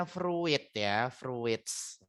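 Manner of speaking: "fruit" read as written, fru-it; two syllables in "fruits", fru-its; spelling pronunciation. Shown as a demonstration. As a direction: sound out the i in "fruits". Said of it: "tapi I-nya nggak usah dibaca".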